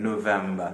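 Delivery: touch lip to teeth for the V in November. Shown as a demonstration. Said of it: "आपका निचला होंठ ऊपरी दांतों से टकराए".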